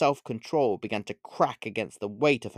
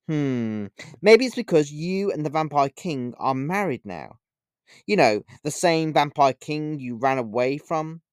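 taunting; 3 semitones higher than usual. Acted. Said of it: "with a wide-eyed glare and grin".

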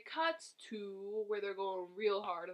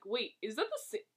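rising, fast, much louder disbelief; incredulous; 6 semitones higher, 11 dB louder, much faster than usual. Retold or imitated. Retelling seeing the reused animation, incredulous. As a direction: blurt it out in shock.

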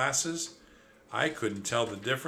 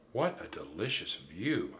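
sighing; 4 semitones lower, 4 dB quieter than usual. Acted. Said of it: "I sighed".

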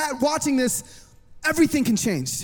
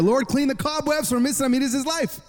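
a slightly more fervent mock prayer; praying harder; 3 semitones higher than usual. Pastor prays over Miss Ramirez, a little harder. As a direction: pray it with added push, pitched up. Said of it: "he prayed a little harder".

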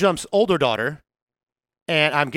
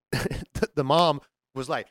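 usual speaking voice

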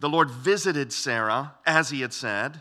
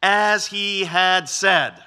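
slow and louder, leaning hard on As he had said; emphasis on the promise; 2 semitones higher, 8 dB louder, much slower than usual. Shown as a demonstration. Preacher stressing God's word to the congregation, slow and emphatic. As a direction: draw out As he had said so it lands. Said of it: "notice the emphasis on this passage".

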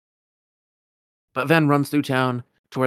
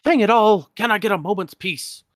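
put-on much higher, loud exasperated old wizard; Merlin calls out; 10 semitones higher, 8 dB louder than usual. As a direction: bellow it out, fed up. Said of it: "Merlin calls out".

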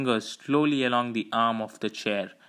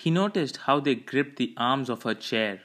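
usual speaking voice

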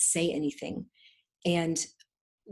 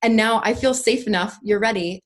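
lightly voiced inner self, a bit louder; her scared inner part; 3 semitones higher, 6 dB louder than usual. Her fearful inner part thanking her for the mask, lightly voiced. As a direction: give the protective inner part a light, kind voice. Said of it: "the part of me that was very scared of using my voice came in and said".

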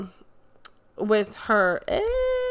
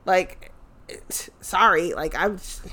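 hushed, breathy whisper; soft whisper; whispered aside; 3 semitones lower, 5 dB quieter than usual. Real, not acted. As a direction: whisper it secretly.

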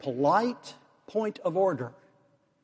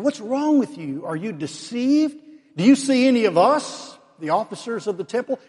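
exasperated scolding; 6 semitones higher than usual. Acted. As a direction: tear into them for being fooled. Pharisees scold the officers.

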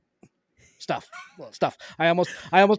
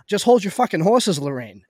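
a mildly raised retold yell; mock yell; 5 dB louder than usual. Companion yelling back at the mother from the kitchen, mild mock yell. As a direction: call back half-shouting from the kitchen. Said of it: "yells from the kitchen".

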